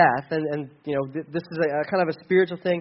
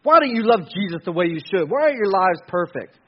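louder, harsh accusing preacher; scolding rant; 6 dB louder than usual. Retold or imitated. Preacher mocking a condemning churchgoer, loud scolding. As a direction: berate the crowd like a finger-wagging judge. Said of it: "It's not like".

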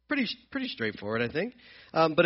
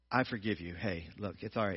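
much softer, gentle retold forgiveness; soft forgiving; 9 semitones lower, 10 dB quieter than usual. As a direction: say it low and gentle, letting it go. Retelling forgiving someone who hurt him.

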